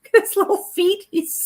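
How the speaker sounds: high, giggly gush over cuteness; overwhelmed by cuteness. Real, not acted. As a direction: squeal at something adorable. Cooing over tiny bunny feet.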